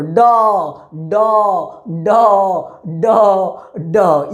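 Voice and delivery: door drawn out as a long open daw with no r; long aw vowel. Shown as a demonstration. Teacher drilling the class on the long aw in door. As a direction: say door with a long rounded aw, no final r. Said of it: "It is not a door".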